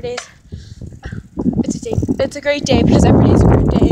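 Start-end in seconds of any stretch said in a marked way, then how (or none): 2.2-3.9 fast, running the whole line together; rushed catchphrase. Shown as a demonstration. Vlogger retrying an intro catchphrase, rushed fast delivery. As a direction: rattle the catchphrase off in one breath. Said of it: "Okay, never mind".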